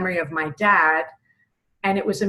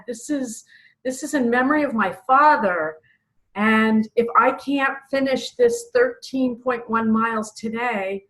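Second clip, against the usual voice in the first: high, pleading, close to tears; begging God through tears mid-race; tearful prayer; 5 semitones higher than usual. Retold or imitated. Runner prays to God for her father's memory, tearful. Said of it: "and I started crying".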